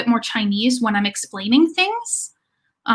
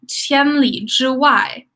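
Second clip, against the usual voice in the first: slow demo; much slower than usual. Shown as a demonstration. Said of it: "teacher demonstrating new word".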